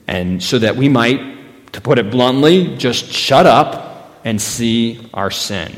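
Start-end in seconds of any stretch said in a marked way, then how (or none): none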